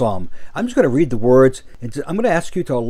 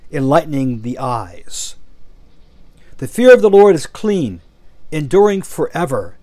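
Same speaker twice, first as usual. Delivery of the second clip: slow, measured reading with strong openings to verses; slow scripture reading. Real, not acted. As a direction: read it slowly, letting each verse soak in. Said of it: "I'm gonna read them slowly".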